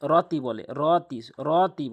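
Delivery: "রতি" with first vowel not stretched; wrong short RO. Shown as a demonstration. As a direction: say "রতি" without holding the RO. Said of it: "এখানে টেনে পড়ে না".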